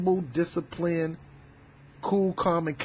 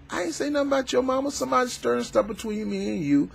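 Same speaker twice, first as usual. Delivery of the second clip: higher, fast protesting denial; flustered denial; 9 semitones higher than usual. Retold or imitated. The accused guy denying he insulted the mama, rushed. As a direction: talk fast to get out of trouble. Accused denies, acted quarrel.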